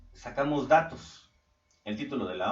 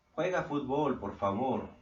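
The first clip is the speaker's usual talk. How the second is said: polite command; 2 semitones higher than usual. Shown as a demonstration. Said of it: "el imperativo es una orden".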